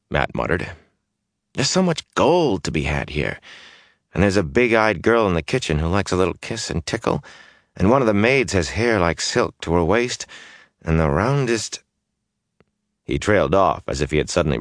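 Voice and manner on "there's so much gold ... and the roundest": restless youth pleading to leave; brash young man. Acted. Mat's voice again.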